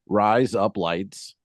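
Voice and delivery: put-on "Rise up, lights" in an ordinary American accent; plain American accent. Australian says don't try, plain American accent. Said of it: "with your, uh, American accent".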